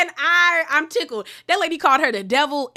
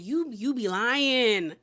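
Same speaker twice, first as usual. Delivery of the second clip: slow drawn-out taunt; slower than usual. Shown as a demonstration. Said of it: "it's just giving".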